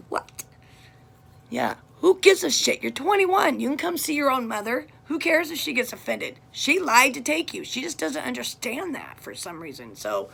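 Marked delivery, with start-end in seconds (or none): 2.0-7.6 loud, high, exasperated rant; a mother fed up and ranting; angry outburst. Real, not acted. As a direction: let the frustration spill out loud. Angry mother ranting about daughter.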